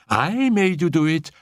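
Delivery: gleeful cry. A narrator's reading. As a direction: crow it while dancing about. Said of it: "cried Annette".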